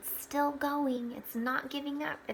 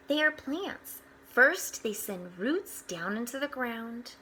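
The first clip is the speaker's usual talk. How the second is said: bright storybook read-aloud; gentle storyteller voice; reading to children; 4 dB louder than usual. Acted. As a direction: read it out like a picture book for the class. Reading picture book aloud to children.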